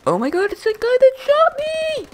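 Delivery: mock outraged dog voice; angry respawned dog. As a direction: squeal it like a furious cartoon critter. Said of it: "they're like".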